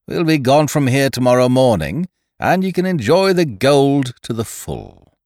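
high, loud gloating jeer; scornful refusal. A narrator's reading. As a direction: gloat over their greed. Ned refuses Winter.

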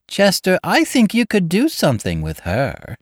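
high, loud excited blurt; shrill sudden outburst. A narrator's reading. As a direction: break out eagerly at her husband. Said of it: "she broke out".

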